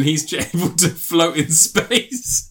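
laughing through the words; amused. Real, not acted. Film reviewer recounting an absurd space scene, amused. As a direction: tell it through rising giggles. Cracking up telling absurd plot.

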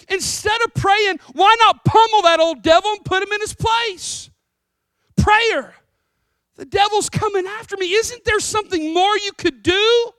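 high, loud, exasperated pleading building to a shout; protesting Peter. Acted. Peter begging Jesus to pummel the devil, loud exasperated protest. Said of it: "what might look a little something like this".

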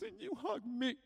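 soft, high, halting voice; re-enacted tender revelation with pauses; moved confession. Girl's emotional revelation.

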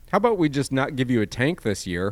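angry. Retold or imitated. Angry imagined rant at police.

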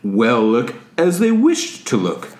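lightly voiced calm, smart presenter; a hint of a calm visionary; Steve Jobs voice. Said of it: "that was excellent".

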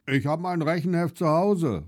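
lightly voiced boy calling out; mild child's call. A narrator's reading. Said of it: "ruft Max".

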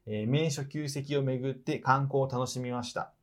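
even, measured read-aloud voice; reading a letter aloud. Real, not acted. Host reading out a trip report to the person it is about, read-aloud voice. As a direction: read it out like a written travel report.

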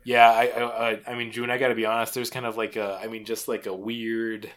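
hesitant, tactful letdown, softening at the end; awkwardly polite. Acted. Coworker gently breaking bad news about a smell, awkwardly polite. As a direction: stumble politely round an awkward truth. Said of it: "try to be very polite about it".

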